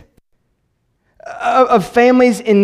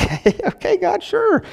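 sceptical brush-off; 13 semitones higher, 3 dB quieter, slower than usual. Retold or imitated. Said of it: "Zechariah's kinda like".

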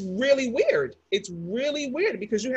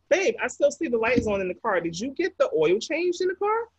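wife's reminder; 4 semitones higher than usual. Retold or imitated. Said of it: "wife asking again".

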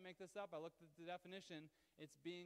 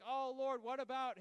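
mock pleading believer; 5 semitones higher, 9 dB louder than usual. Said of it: "you could be like".

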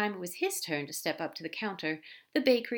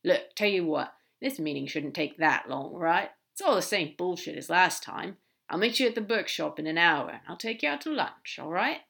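brisk demon, a little louder; lightly voiced demon; 4 dB louder than usual. Crowley offering Aziraphale lunch, lightly in character. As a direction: lightly play a gruffly caring demon making plans.

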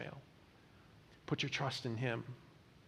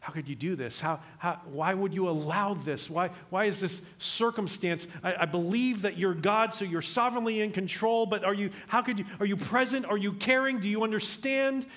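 pleading prayer; 3 semitones higher than usual. Retold or imitated. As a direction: plead with God, rising as doubts pile up. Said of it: "so many times we're wondering".

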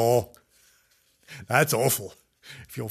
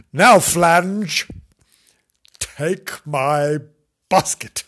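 loud, higher orders; bossy wife; 4 semitones higher, 8 dB louder, much slower than usual. Acted. Wife sending husband shopping, loud and bossy.

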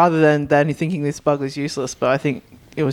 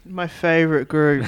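sarcastic. Real, not acted. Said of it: "You said that almost sarcastically".

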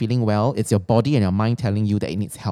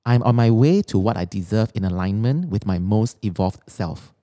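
affirmation reading. Acted. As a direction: read each line like a mantra. Reads her written affirmations.

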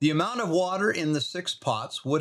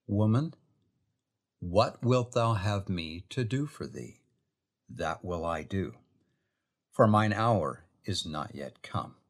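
gentle offer; 4 semitones lower than usual. Shown as a demonstration. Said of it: "this is how the Lord".

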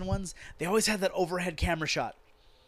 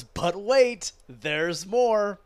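louder, higher hammed-up sales pitch; bad infomercial pitchman; 4 semitones higher, 5 dB louder, much slower than usual. Mocking WWE as a pushy infomercial announcer, hammed-up. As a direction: hype it like a cheesy TV ad host. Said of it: "like a bad infomercial".

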